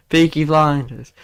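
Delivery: put-on slow stab at a Brummie accent; badly faked Brummie; Peaky Blinders accent. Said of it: "I can't do the Peaky Blinders accent".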